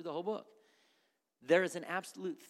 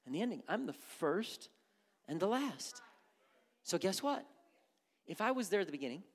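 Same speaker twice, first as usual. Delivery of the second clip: calm voice of God; 5 semitones higher, faster than usual. Acted. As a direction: settle the worrier gently as God. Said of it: "And God goes".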